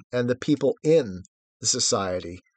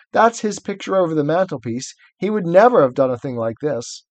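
guilty faun; 3 semitones higher, 3 dB louder than usual. Acted. Faun confessing his badness to Lucy, lightly voiced. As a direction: wail your own wickedness. Plays Tumnus reading aloud.

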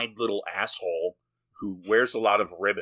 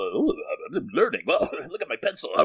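mock eager pupil; 4 semitones higher than usual. Mimes montage of boy learning.

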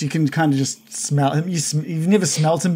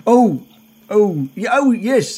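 delighted; 7 semitones higher, 5 dB louder, slower than usual. Acted. Greg reacts to an approving thumbs up.

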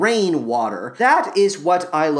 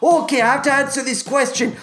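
lightly voiced Shrek impression, Scottish-ish ogre; hammed-up crude ogre, bawdy and gleeful. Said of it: "Take it away, Shrek".

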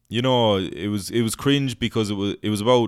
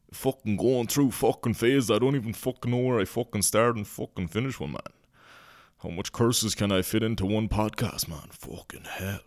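put-on rough rural Irish lad accent, raised pitch; Hardy Bucks voice; 3 semitones higher than usual. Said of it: "he sounds a bit like someone".

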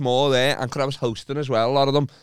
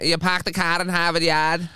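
attempted Boston accent, higher and drawn out; 4 semitones higher, slower than usual. Shown as a demonstration. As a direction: put on a slow Boston twang. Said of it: "Do you want me to do the Boston accent?".

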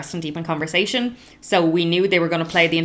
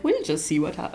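put-on Welsh accent; 5 dB quieter than usual. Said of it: "Their little accents are like".

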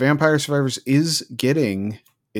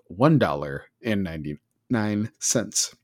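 slow, lower mock-emotional price reveal; mock choked up; 3 semitones lower, 4 dB quieter than usual. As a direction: linger over the price as if overcome. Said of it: "I'm getting choked up talking about it".

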